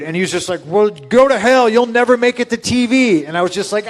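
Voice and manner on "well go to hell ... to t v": higher, louder mock shout; hammed-up old-timer cursing him out; mock angry Tony Atlas. Tony Atlas shouting at the speaker, mock anger.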